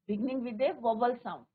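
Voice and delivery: slow, word by word, for copying into notebooks; slow dictation. Shown as a demonstration. Teacher reads the rule to students slowly. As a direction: spell the rule out slowly for the class. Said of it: "rule repeated slowly".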